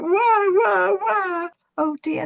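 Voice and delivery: high, loud mock baby wailing; hammed-up boo-hoo crying; sobbing wah. Little apple tree bursting into tears, hammed-up wailing. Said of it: "this poor apple tree sobbed his heart out".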